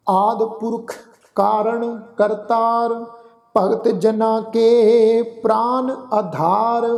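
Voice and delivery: slow, measured recitation of gurbani, phrase by phrase; scripture recitation. Acted. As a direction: chant each line devoutly with pauses.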